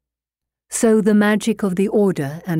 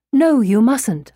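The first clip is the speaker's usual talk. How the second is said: higher, slow cry of protest; 5 semitones higher, 4 dB louder than usual. A narrator's reading. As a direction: plead in a raised, drawn-out voice. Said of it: "I cried".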